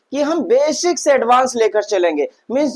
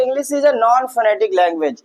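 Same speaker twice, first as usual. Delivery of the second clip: slow dictation; much slower than usual. Shown as a demonstration. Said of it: "teacher states rule".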